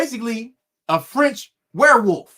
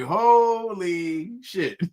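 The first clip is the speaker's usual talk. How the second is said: slow awe; much slower than usual. Retold or imitated. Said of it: "I was like".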